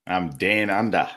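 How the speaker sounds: hammed-up broad Australian twang; bad Australian accent. Co-host answering his intro as down under, bad Australian accent. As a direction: overdo a bad Aussie accent. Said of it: "doing a bad Australian accent".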